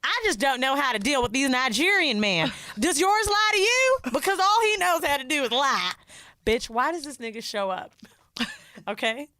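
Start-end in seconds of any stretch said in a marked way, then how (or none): 0.0-5.9 mock whiny complaint. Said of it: "And she's like".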